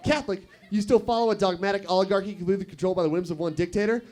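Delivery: lightly mocked minister, rattled off fast; a hint of preacherly disbelief, speeding up; incredulous Baptist minister. Minister challenges a Catholic, fast mock incredulity. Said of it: "He's like".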